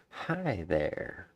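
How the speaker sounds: a hint of a haughty high elf greeting; lightly voiced high elf saying hi; barely-there high elf voice. Shown as a demonstration. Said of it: "That's my high elf voice".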